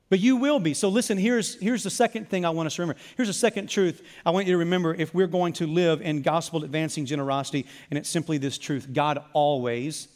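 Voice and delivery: normal talking voice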